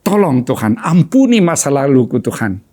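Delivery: broken pleading, each Tuhan fading away; mild sob-like plea for forgiveness; understated crying prayer; retold weeping prayer. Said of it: "Saya menangis".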